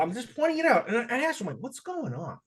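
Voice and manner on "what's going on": soft, higher concerned question; quick, softened check-in; sincere question. Retold or imitated. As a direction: ask gently, out of concern. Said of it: "Sincerely, I said".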